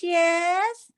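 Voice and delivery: high, drawn-out yes in a put-on foreign accent; pretend non-English speaker. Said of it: "pretending I don't speak English".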